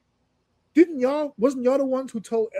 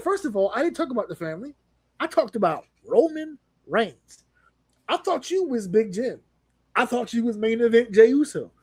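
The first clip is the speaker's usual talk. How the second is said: high, baffled mock complaint; exasperated Seth; 4 semitones higher than usual. Seth complaining to the bloodline, high and exasperated. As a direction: throw up your hands in disbelief.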